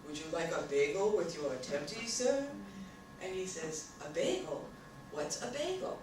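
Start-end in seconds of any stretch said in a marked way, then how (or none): 0.1-2.5 lightly voiced formal waiter; a touch of fancy-restaurant waiter, rising on sir. Waiter serving a gentleman in a fancy restaurant, formal. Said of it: "the waiter comes over with a big silver platter". 4.1-6.0 lightly voiced puzzled diner, softer; mock-puzzled gentleman, voice lifting high at the end; fancy restaurant gentleman. Gentleman answering a waiter in a commercial, puzzled. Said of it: "a gentleman sitting in a very fancy restaurant".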